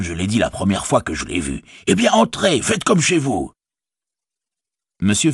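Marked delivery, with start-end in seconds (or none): 1.9-3.5 high-pitched, bustling invitation inside; hearty welcome. Acted. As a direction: usher the guests in eagerly, pitched high. Innkeeper heartily ushers guests in. (accueil empressé, voix aiguë)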